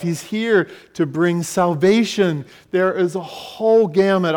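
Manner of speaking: rousing sermon build, phrase by phrase; emphatic preaching. Real, not acted. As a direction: proclaim each point with conviction. Preaches on Christ's mission.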